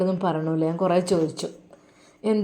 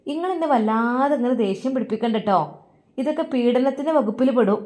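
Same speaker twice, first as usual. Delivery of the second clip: threatening retort; 5 semitones higher than usual. Acted. Daughter-in-law threatens mother.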